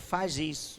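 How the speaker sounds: very soft, tiny, devilish voice. Telling the brethren how the devil urges a person on, in a little devil voice. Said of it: "aquela voz do capeta dizendo".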